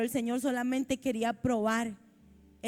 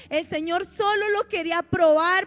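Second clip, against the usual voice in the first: raised, higher preacher's voice; emphatic preaching; 4 semitones higher, 3 dB louder than usual. Real, not acted. Preacher explaining Abraham's test to the congregation, emphatic preaching. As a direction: press the point home to the congregation.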